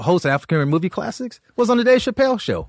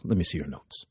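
low, fast, offhand mumble; lazy Paul voice; 14 semitones lower, 12 dB quieter than usual. Retold or imitated. Paul invites the comic on tour, low and offhand. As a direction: toss it off like a casual offer. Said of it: "He goes".

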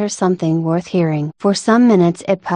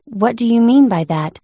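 stern; 4 semitones higher than usual. Acted. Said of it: "said the caterpillar sternly".

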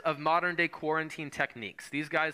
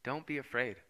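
gentle reassurance; 4 semitones lower, 6 dB quieter than usual. Shown as a demonstration. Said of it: "It's the same words the angels".

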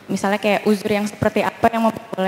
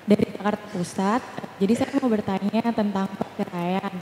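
far from mic; 6 dB quieter than usual. Real, not acted. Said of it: "Dekatkan mikrofon".

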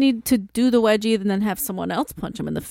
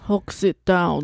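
Hulk voice; 4 semitones lower, slower than usual. Acted. Hulk repeating Batman.

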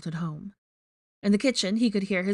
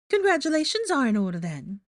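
very high, loud, fake-sweet trill; high, falsely chipper character voice; Rita Skeeter, falsely chipper; 8 semitones higher, 4 dB louder than usual. A narrator's reading. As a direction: gush with false cheer. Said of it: "her falsely chipper voice".

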